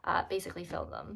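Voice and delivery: slightly breathless after carrying a heavy bag; out of breath. Real, not acted. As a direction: talk while catching your breath. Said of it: "sound like I'm out of breath".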